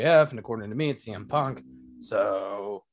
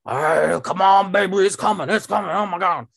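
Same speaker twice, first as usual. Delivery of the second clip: excited; 6 semitones higher, 4 dB louder than usual. Retold or imitated. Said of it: "I'm like".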